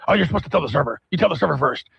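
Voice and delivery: lightly mimicked barking cashier; a touch of brusque impatience, imitated; barking checkout guy. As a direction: scold the customer in a mild mock bark. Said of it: "he almost barks at you".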